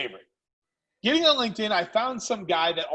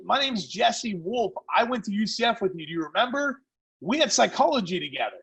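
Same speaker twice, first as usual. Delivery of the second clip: chummy sales-call pitch, raised voice; feigned familiarity; 3 semitones higher than usual. Retold or imitated. Caller claims shared psychology class, feigned familiarity. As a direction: remind him like an old buddy.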